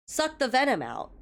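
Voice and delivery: dry, flat-faced mock order; imitating a deadpan dad. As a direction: deliver it with a straight face, like a dad joke. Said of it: "he looks at me deadpan and goes".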